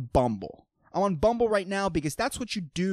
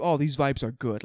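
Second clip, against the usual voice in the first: mock stoner vibing; 4 semitones lower than usual. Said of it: "they just turn into".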